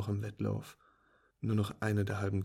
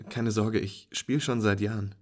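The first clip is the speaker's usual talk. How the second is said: cheerful friend; 7 dB louder than usual. Acted. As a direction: praise the beginner's lucky shot.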